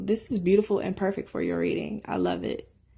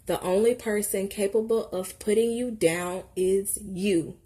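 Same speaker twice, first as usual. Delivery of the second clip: deliberate read-aloud with punch, easing off at the end; emphatic card reading. Acted. Card reader to those feeling small, emphatic read-aloud. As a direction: read it out firmly like a pep talk.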